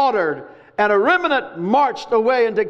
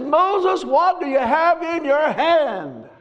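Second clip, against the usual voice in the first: voice of God calling; 5 semitones higher, slower than usual. Retold or imitated. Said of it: "He says".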